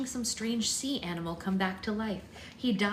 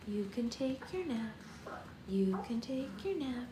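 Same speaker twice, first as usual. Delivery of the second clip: gentle sleepy coaxing; soothing; 2 semitones higher than usual. Real, not acted. Putting baby down.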